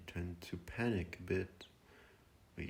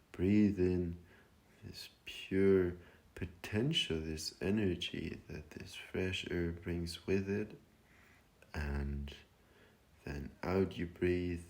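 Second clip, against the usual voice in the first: guided meditation. Acted. Meditation leader guiding listeners to breathe deeply, calm and unhurried. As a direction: guide them through each breath, with long pauses.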